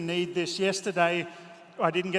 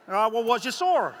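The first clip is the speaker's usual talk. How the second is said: imitated American gentleman; 5 semitones higher, 5 dB louder than usual. Gentleman's voice in retold story.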